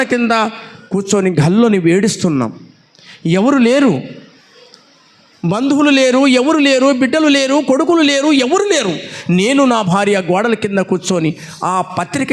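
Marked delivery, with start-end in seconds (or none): 3.3-9.0 lamenting cry. Acted. Preacher telling the congregation no one came, higher lamenting cry. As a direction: cry out the loneliness line by line.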